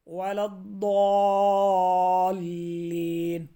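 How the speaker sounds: very slow chanted ولا الضالین; slow tajweed recitation; Quran recitation. Acted. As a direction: draw out الضالین melodically. Recites the verse.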